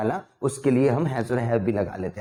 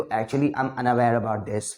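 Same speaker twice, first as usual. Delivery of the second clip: slow demo; 4 semitones lower, much slower than usual. Shown as a demonstration. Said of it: "unaware कितना बढ़िया लग रहा है".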